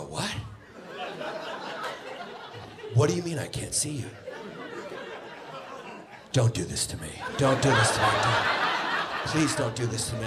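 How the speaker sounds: hammed-up begging, scared and needy; mock desperate pleading. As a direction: overact the panic like a junkie. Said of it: "You act really shocked and scared".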